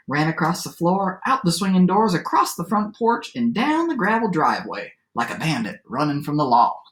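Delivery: lively storyteller read-aloud with swooping pitch; story narration. A narrator's reading. Teacher reads a favorite adapted fairy tale aloud, lively storytelling. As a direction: read it to children as a tall tale.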